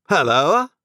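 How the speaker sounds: a sharp call over the shoulder; Jaggers, turning. A narrator's reading. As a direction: Jaggers answers Pip, gruff hail.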